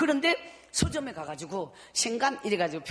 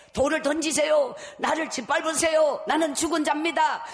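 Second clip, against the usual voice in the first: raised, loud surrender cry; 6 semitones higher, 5 dB louder than usual. Retold or imitated. Praying alone in the prayer house, loud cry. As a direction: throw yourself down before God. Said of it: "이러면서 뭐 혼자서".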